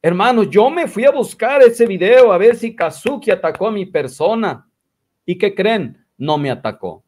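lightly imitated, starting high and dropping at the end; Israel. Man reporting he checked a video for attacks, lightly imitated. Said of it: "y dice el Israel".

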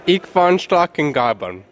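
slow, loud, barked mock German speech; mock Hitler German. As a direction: ham up a slow, loud Hitler-style rant. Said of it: "You've heard Hitler speak".

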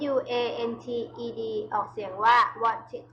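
"wanted" with a second syllable "tid", slowly; "wanted" ending in "tid". Shown as a demonstration. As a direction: spell it, then say "wanted" as two syllables.

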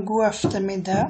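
গু runs straight into আফতামিদা, no d; silent d in গু. Shown as a demonstration. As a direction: drop the d between গু and আফতামিদা. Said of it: "ডি উচ্চারণ করা হয় না". (গু আফতামিদা, ড উচ্চারণ না করে)

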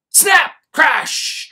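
very high, loud snap and crash; loud sound words. A narrator's reading. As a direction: hit each word like a breaking branch. Tree branch breaking.

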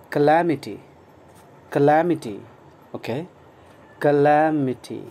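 calamity said slowly and loud, stress on LA; teacher's clear model of calamity; slow teaching model. Shown as a demonstration. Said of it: "its pronunciation is". (धीमा, ज़ोरदार उच्चारण)

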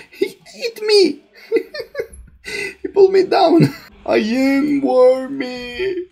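high laughing disbelief. Real, not acted. Gamer eaten by the worm, laughing high. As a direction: laugh through the words.

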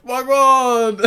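London slang imitation. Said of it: "without someone saying wagwan".

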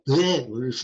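"bleh" with a muddled consonant between b and d; in-between consonant attempt. Shown as a demonstration. Lecturer proving no sound lies between ba and da, failed consonant blend. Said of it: "can't make a sound between ba and".

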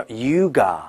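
yoga said slowly, clean ending; yoga, no curl at the end; correct yoga. Shown as a demonstration. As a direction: model yoga without r. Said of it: "瑜伽叫".

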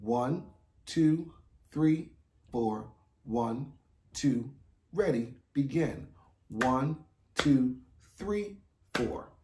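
steady count-in with a cue. Shown as a demonstration. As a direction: count them in evenly. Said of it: "here we go".

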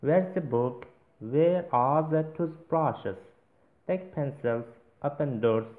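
reading sentences slowly and clearly for students to translate; measured dictation pace, each phrase set apart. Shown as a demonstration. Teacher reading English sentences aloud to the class, slow and clear.

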